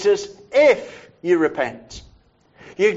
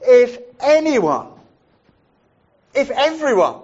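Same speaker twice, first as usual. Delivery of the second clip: loud proclaiming voice; 5 semitones higher, 4 dB louder than usual. Acted. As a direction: proclaim it like Jesus standing before the crowd. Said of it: "said in a loud voice".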